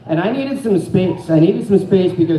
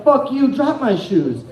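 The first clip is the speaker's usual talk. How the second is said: higher defiant snap at her; defiant yell; 6 semitones higher than usual. Retold or imitated. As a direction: dare her to do it. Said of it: "I'm like".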